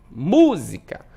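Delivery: música joined up, with the mú stressed; stress on the first syllable. Shown as a demonstration. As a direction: lean on the mú of música. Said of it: "pronuncio aí com uma maior intensidade". (música com o mú mais forte)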